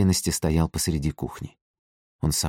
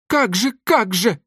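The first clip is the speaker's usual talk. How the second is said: much higher, louder, slow scornful yell; 4 dB louder, slower than usual. A narrator's reading. Old mother yelling at her daughter's suitor, a high yell. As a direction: bellow it in disbelief. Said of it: "орёт фрау Мёршель".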